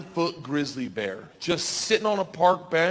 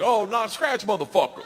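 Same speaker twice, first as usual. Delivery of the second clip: playful greeting; 6 semitones higher than usual. Retold or imitated. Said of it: "they're like".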